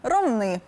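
Ромни stressed on the final syllable, -нИ; stress on last syllable. Shown as a demonstration. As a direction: land firmly on the end of Ромни. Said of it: "наголос так і залишився". (наголос на останньому складі: Ромни)

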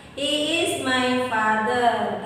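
slow, careful dialogue line; a teacher repeating the dialogue line slowly; slow model sentence. Shown as a demonstration. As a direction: repeat it slowly after the translation. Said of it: "Tidak, bukan".

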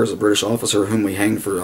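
ordinary talk

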